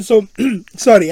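coughing after swallowing wrong; cough, then force out the words; choking on water. Real, not acted. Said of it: "I choked on my water there".

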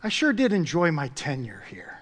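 mildly polite, absurdly calm; mock composure. Preacher imagines a fired worker taking it politely, mock composure. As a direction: play it as unruffled understatement. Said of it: "No, they get fired up".

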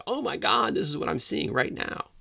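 very high, alarmed outcry; sudden shocked cry of alarm; panicked scream. Retold or imitated. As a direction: yell it as you witness it in real time. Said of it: "screaming at the top of their lungs".

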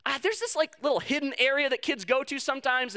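put-on little girl. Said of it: "this little five-year-old girl told me".

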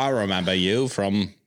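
light mock New Zealand accent; a hint of a Kiwi droid voice. Podcast host doing IG droid as a Kiwi, light New Zealand accent. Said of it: "it's my best New Zealand voice".

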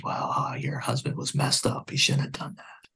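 retold gunman quietly siding with her; hushed sympathy. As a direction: mutter it almost under your breath.

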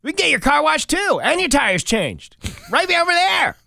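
high, loud, gushing playful voice; squealing with childlike glee; giddy excited reporters. Acted. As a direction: play the news crew as giddy kids planning a picnic. News crew imagined as kids.

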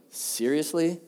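understated rising incredulous question; acted indignation, with a questioning lift; indignant disbelief. Someone looking at you, can't believe it, indignant. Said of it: "They're indignant".

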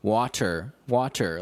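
carefully enunciated, as if to be understood; clear enunciation. Retold or imitated. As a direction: say each word separately and clearly. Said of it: "speaking up very clearly".

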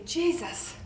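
loud, demanding accusers dragging her to Jesus; self-righteous crowd calling for stoning; accusing mob. Acted. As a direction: push Jesus for a verdict, loud. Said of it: "they say".

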